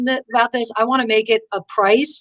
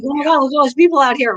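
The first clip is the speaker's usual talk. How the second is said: nervous rush; 5 semitones higher, faster than usual. Retold or imitated. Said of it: "you're like".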